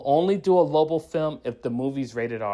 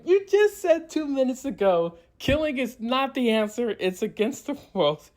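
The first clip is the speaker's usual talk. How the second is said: mock outrage pitched way up; incredulous; 11 semitones higher than usual. Reviewer mocking Kara breaking her no-kill rule, incredulous. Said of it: "I'm like".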